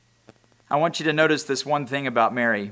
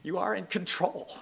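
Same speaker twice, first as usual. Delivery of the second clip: much higher and much softer, tearful; broken prayer; 8 semitones higher, 5 dB quieter than usual. Retold or imitated. Mary at Jesus's feet, softly and tearfully surrendering. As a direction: cry it out in surrender. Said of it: "fell at his feet and said".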